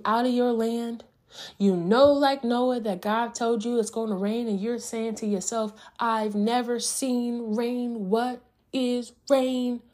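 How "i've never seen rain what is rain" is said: slow, higher-pitched wondering, acted out; puzzled wondering. Noah saying to himself about rain, slow puzzled wondering. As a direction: draw it out slowly, as if baffled. Voices Noah's bewildered thought to himself.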